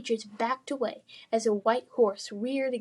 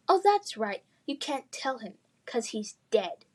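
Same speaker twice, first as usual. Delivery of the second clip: sinister smirk; 2 semitones higher than usual. Acted. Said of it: "smirks deep into something sinister".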